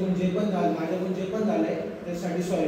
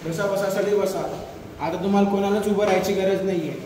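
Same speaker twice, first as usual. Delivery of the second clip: calling out to crowd; 4 dB louder than usual. Acted. Addresses juniors in canteen.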